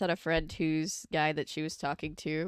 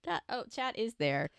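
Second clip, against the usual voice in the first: surprised; 8 semitones higher than usual. Real, not acted. Spots chat is live.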